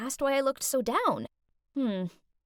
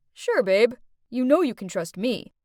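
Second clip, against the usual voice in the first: put-on smooth boyfriend; 4 dB louder than usual. Boyfriend voiced by narrator.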